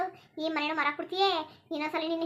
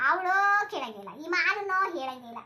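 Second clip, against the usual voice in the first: slow indignant rant; 4 dB louder, slower than usual. Acted. Grandmother rants about daughter-in-law.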